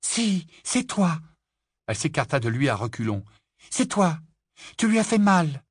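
high, loud furious blame; angry accusation. A narrator's reading. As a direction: hurl the blame at him. Lily accuses angrily. (Lily furieuse, accuse Rogue à voix forte)

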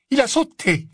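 high, firm stern teacher voice; stern old witch. Acted. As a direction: state it flatly, stern. McGonagall voiced in story.

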